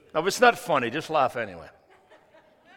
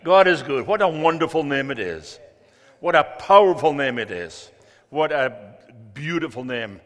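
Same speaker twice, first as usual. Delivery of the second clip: loud proclamation; 6 dB louder than usual. Real, not acted. Preacher proclaims to congregation.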